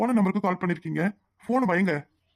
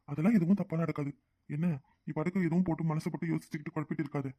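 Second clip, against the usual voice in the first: much softer, calming; soft reassurance; 6 dB quieter than usual. Acted. Husband gently reassuring his anxious wife. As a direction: soothe her worry gently.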